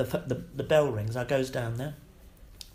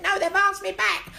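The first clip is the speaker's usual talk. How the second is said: very high, loud laughing announcement; high elated laughing reply; triumphant news; 8 dB louder than usual. Retold or imitated. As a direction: burst out with the good news.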